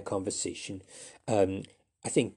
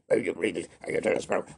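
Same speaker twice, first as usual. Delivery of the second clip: lower, quick, throwaway; brisk offhand take; 4 semitones lower, faster than usual. Shown as a demonstration. Teacher showing a quicker other way to say the line. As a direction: rattle it off casually. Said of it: "I said it in two different ways".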